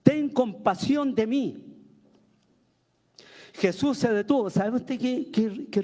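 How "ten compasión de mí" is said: mild imploring call, drawn out at the end; demonstrated pleading cry. Shown as a demonstration. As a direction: show a congregation how to cry for mercy. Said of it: "Así deberíamos estar gritando nosotros también". (clamor suplicante de muestra, alargado al final)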